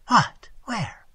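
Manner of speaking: high, startled questions, the first loud; astonished. Acted. Waitress reacts to Tigertail's claim, astonished. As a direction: blurt it out in disbelief.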